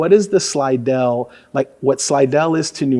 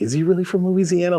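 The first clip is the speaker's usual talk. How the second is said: suspicious; 6 semitones higher than usual. Retold or imitated. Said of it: "they're a little suspicious".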